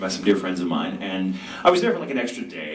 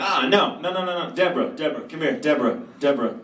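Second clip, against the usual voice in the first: calling excitedly; 7 semitones higher than usual. Retold or imitated. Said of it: "she goes like".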